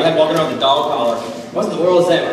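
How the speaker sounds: put-on quick, amused teen protest; laughing mock complaint. A teen mocking his parents' tracking, quick and laughing. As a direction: rattle it off through a laugh.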